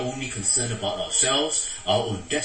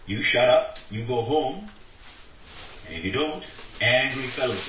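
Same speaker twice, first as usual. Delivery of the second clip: bully's threat. Retold or imitated. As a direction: bark orders at him like a thug. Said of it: "He says".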